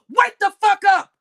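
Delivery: high, loud and drawn out with fury; angry shout at the chat; furious slow yell. Real, not acted. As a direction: hammer each word at them.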